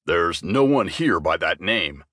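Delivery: deep, gruff troll barkeep; low and weary, a bar-owning troll; troll bartender. Acted. Troll bartender Percy voiced.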